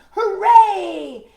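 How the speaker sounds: high, loud, laughing hooray; cheering. Acted. Townspeople chasing the flying kid, cheering loudly. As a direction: whoop for joy. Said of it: "cheering and sweating and screaming".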